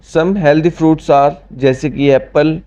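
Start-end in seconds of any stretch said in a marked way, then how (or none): 0.1-1.3 slow dictation. Shown as a demonstration. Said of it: "teacher reads English slowly".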